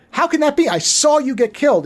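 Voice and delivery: retold disbelief, starting high; baffled confrontation, lightly acted; disbelieving. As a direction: challenge it in mild astonishment. Retold character confronts someone thought dead.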